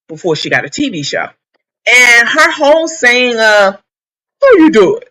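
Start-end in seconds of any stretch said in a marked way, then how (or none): 4.4-5.0 campy high "how you doing"; sassy drag queen greeting. Retold or imitated. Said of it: "is said in a drag queen voice".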